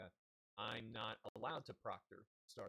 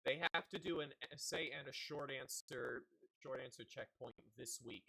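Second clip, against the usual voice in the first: louder, mock-cheery announcement; mocking district voice; 2 semitones higher, 4 dB louder than usual. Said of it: "the district says".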